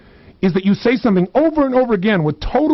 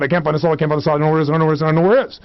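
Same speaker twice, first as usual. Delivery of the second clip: rattled-off mock chant; insistent looping self-talk; intense repetition; 3 semitones lower, much faster than usual. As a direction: run the phrases together like a compulsive chant. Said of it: "with total emotional intensity, over and over".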